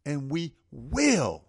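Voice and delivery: "will" loud and stretched long; slow build onto a big, drawn-out "will"; emphasis on WILL. Real, not acted. Host promises victory, slow with loud stress on will. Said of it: "put the emphasis on that word".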